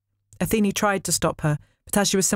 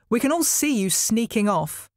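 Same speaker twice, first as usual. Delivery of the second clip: snapped; 5 semitones higher than usual. A narrator's reading. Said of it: "Hera snapped".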